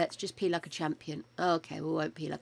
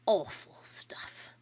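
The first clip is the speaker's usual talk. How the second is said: whispered disgust; 3 dB quieter, slower than usual. Real, not acted. Disgusted aside after choking.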